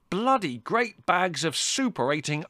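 high, slow, disgusted tirade; bellowing outrage. A narrator's reading. Son describing the icebox sparrows to mother, bellowing. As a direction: spell out each awful word with fury. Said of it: "bellowed Larry".

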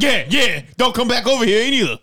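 loud, high scolding call; yelling after them. Retold or imitated. Attendant yelling at fleeing kids, loud high scold. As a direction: shout after the running kids. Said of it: "I get mad".

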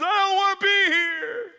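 put-on high, loud whiny kid wail; wailing child. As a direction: wail like a scared little boy. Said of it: "He goes".

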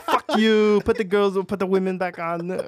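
bratty crank-caller taunt; mock prank caller. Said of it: "They're like".

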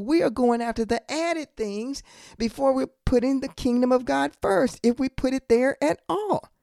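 emphatic preaching. Real, not acted. Preacher telling Christian people they got it backwards, emphatic preaching. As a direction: press the rebuke on the congregation.

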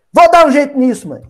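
resolute daughter. Acted. Daughter promises to deal with her mother's trouble, lightly acted resolve. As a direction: play a daughter taking charge. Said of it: "A filha, ela".

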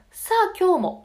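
「さあ、今日も」 jumped up high and loud; pitch lifts. Shown as a demonstration. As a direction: lift 「さあ、今日も」 up to the top of the voice. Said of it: "のところで高くなりましたね". (「さあ、今日も」を高く持ち上げる)

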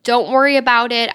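a hint of a kind older driver calming you; sweet lady. Sweet pregnant woman forgiving the nervous young driver, gentle. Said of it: "the sweetest lady".

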